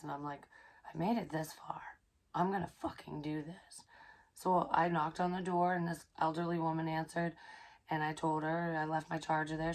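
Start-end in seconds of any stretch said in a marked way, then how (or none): 0.9-3.8 whispered resolve; hushed self-pep talk before knocking; determined whisper. Retold or imitated. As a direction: whisper it to yourself to steel up. Psyching herself up.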